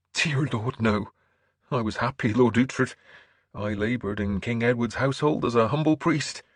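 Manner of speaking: lifted, sincere priestly voice; earnest bishop. Acted. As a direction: confide as a humble churchman. Bishop tells of his past.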